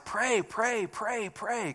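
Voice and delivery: "pray" repeated in even, insistent beats; emphatic repetition. Retold or imitated. Preacher echoing the Bible writers' call to pray, emphatic. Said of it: "again emphasize".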